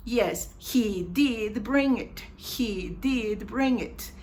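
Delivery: DID held long and firm; emphatic DID. Shown as a demonstration. Teacher models the affirmation, DID drawn out. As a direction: insist with weight on DID. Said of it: "to make an emphatic affirmation".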